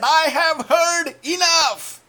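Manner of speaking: the giant raging at David and Israel; furious giant roar. Acted.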